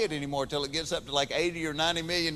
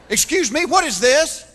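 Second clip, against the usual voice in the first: curious shopper; 6 semitones higher, 8 dB louder than usual. Retold or imitated. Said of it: "yard sale shopper".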